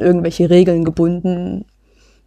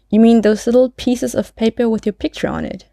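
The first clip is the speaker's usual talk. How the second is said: slightly higher, guileless woman's voice; lightly voiced Maud, innocent; 4 semitones higher than usual. Maud answering the policeman about her license, innocently. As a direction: ask as if lightly playing clueless. Reads Maud's part in dialogue.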